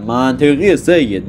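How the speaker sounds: drawn-out, amused منطقیه سید; dry, self-mocking aside, slow; slow, teasing approval; wry remark. Real, not acted. Mocking himself over snow trick.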